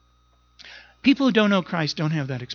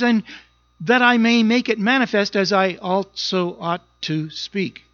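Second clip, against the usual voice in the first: slow, raised scripture reading; 3 semitones higher than usual. Retold or imitated. Pastor quoting Paul's letter, slow and solemn. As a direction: read Paul's words deliberately. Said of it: "Paul puts it like this".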